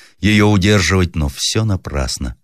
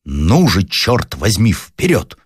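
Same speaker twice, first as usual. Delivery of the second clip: commanding shout; 3 semitones higher, much slower than usual. Acted. Officer urging his men forward, commanding shout. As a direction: bark the order forward. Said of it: "повелительным голосом закричал".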